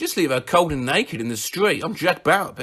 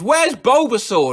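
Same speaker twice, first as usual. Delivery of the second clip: sleepy yell; 8 semitones higher, 4 dB louder than usual. Retold or imitated.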